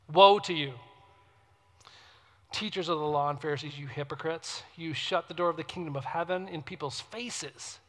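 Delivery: firm opening, sinking into low lament; sad lament. Acted. Preacher reading Jesus' rebuke to the Pharisees, sadly lamenting. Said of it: "it's this sad lament".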